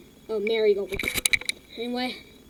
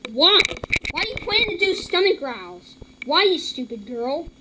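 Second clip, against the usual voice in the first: exasperated rant; 4 semitones higher than usual. Real, not acted. Kid ranting at a girl's stomach-growl channel, exasperated. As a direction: scold her in disbelief.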